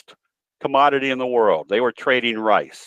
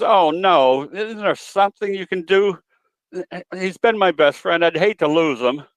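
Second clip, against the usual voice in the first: a lightly raised voice for the lady, pleading; worried lady; 5 semitones higher than usual. Retold or imitated. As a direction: play the worried parakeet owner, a bit higher. Joke: lady begs the vet.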